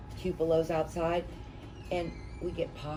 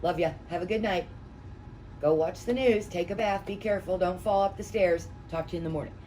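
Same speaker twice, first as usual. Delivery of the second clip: setting boundaries; 2 semitones higher, 3 dB louder than usual. Retold or imitated. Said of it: "I set the rules".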